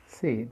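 SEED with a soft, audible d at the end; soft final D. Shown as a demonstration. Teacher repeating the example, SEED with soft final d. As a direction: sound the d in SEED gently. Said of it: "pero se pronuncia hasta ahí".

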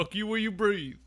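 mock angry guy. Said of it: "this guy looks so angry".

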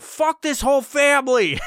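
high mock snarl of a drunk father; hammed-up drunk dad grumble; drunk dad quote. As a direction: blurt it like a sloshed dad storming off. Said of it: "and he's like".

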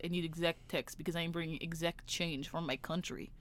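lightly imitated Greek caller's accent; a hint of a put-on Greek accent; foreign caller. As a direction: mimic a Greek caller's halting English. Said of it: "I know a Greek guy".

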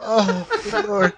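high, slow, laughing "good Lord"; laughing exclamation. Real, not acted. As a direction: let it out through a laugh.

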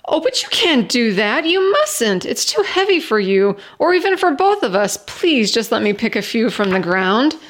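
anxious protest, voice leaping up on the worst words; distressed cry. Acted. Stranger begs Jenny not to lift the heavy ladder, distressed. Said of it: "cried out in distress".

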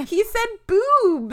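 high, loud, drawn-out disbelief through laughter; hooting it, stretched out and high; laughing mockery. Real, not acted. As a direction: crack up at the silly word. Mocking the word choice, laughing.

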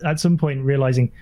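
ordinary talk

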